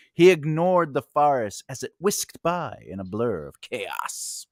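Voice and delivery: slow, measured story narration; deliberate audiobook-style reading; reader's voice. Acted. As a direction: read the fantasy scene aloud, unhurried. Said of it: "do it in my reader's voice".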